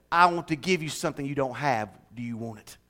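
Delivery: softly voiced, low and tender; hushed, kindly invitation; gentle offer. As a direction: make a quiet, intimate offer. Jesus gently offering, voiced in story.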